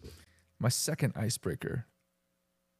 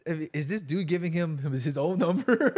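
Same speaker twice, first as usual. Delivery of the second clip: incredulous inner voice; 4 semitones higher than usual. Retold or imitated. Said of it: "In my mind, I was like".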